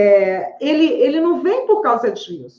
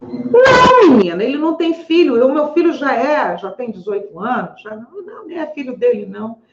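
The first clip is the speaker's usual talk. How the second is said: indignant patient; 2 semitones higher than usual. Retold or imitated. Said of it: "retold patient".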